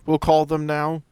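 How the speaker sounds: normal talking voice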